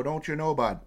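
light cartoon Canadian accent, folksy tag question. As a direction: play up a jokey Canadian "Don't you know, bud?". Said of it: "the cartoon Canadian accent voice".

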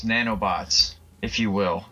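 ordinary talk

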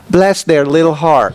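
slow, lightly Southern "Bless their little heart"; a hint of a sweet Southern mom; Southern mother. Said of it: "a line from my mother".

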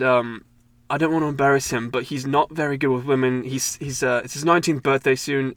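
badly faked British, politely pleading; terrible British accent. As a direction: make a polite pitch in a dodgy British accent. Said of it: "that was a terrible accent".

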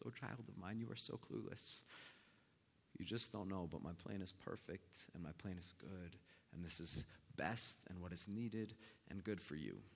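soft, low, patient reassurance; quiet fatherly calm; gentle reply. Acted. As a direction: soothe a clueless child tenderly. Voices God's patient reply.

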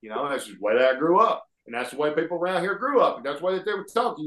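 lightly put-on Alabama country talk; Alabama accent. Shown as a demonstration. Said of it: "I talked about it like this".

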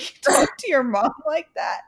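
high-pitched mock disbelief; imitated shocked roommate. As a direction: retell it as an appalled, incredulous question. Shocked roommate questions her phone manner.

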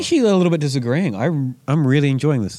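muffled by the glass; talking into a glass. Real, not acted. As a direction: voice into the glass rim. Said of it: "I'm talking into my, into my glass".

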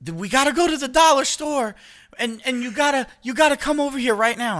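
high, urgent mom imitation; frantic mom. Mom urging her son to come over now, high voice. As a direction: go high and pushy like his mother. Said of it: "Mom's like".

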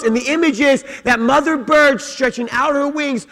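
high, loud, impassioned sermon voice; full-force preaching. Acted. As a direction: preach it out with soaring fervour.

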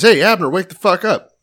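loud, high holler, acted out; retold yell. David hollering down at a sleeping general, mock yell. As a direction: yell down as if from a distance. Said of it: "He yells down and he says".

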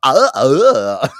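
put-on creepy stuttering noises; creepy guy. Host imitating Goldblum's interview for co-host, creepy mock stammer. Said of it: "like, some creepy guy".

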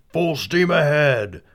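loud, slow bellowed order; captain shouting. Acted. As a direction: roar it like a riverboat captain. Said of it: "as the captain shouted".

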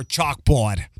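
"chalkboard" with a Boston accent, no R. Shown as a demonstration. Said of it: "the Boston accent".

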